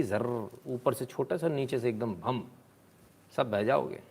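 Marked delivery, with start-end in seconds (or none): 0.0-2.4 imitated crash sound. Shown as a demonstration. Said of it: "third wave ऐसी आएगी".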